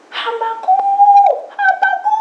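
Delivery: very high, loud distant call. Retold or imitated. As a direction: shout for him from far away. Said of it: "ada yang teriak-teriak". (teriakan memanggil dengan keras)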